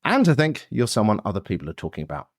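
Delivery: scripted host's welcome with lively pitch swings; podcast intro read. Acted. Podcast host welcomes listeners and previews today's stories, polished intro read. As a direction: present it like a show opener, phrases dropping away at the ends.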